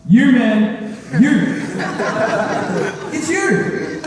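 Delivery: badly faked joy at seeing someone you can't place; pretend excitement. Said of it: "I pretend to be excited".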